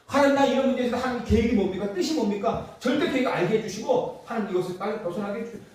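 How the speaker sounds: acted bold, assured petition; confident prayer. God's child bringing a problem to Him, confident prayer. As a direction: pray out plainly and boldly. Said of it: "당당하게 기도할 수 있어야죠".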